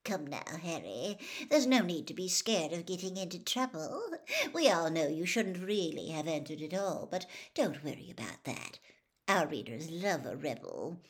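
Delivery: coaxing gossip reporter, sugary; a reporter wheedling a boy into a scoop; Rita Skeeter voice. Acted. Reporter Rita coaxes Harry, lightly voiced and wheedling.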